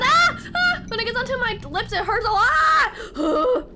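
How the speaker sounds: high, loud, half-laughing pain; real pain spilling out; pained laughing yell. Real, not acted. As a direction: laugh and shout through the burn. Lips burning.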